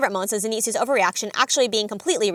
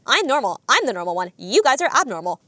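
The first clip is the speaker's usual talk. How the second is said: insistent quote, punching "I'm" and "You"; Zenitsu. Retold or imitated. Zenitsu insists to companions, stressing "I'm" and "You", mock indignant. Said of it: "he insists that".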